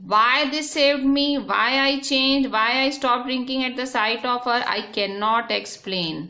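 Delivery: slow, deliberate reading of the English text; slow reading aloud. Shown as a demonstration. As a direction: read each word out slowly for the class. Rereads English text slowly.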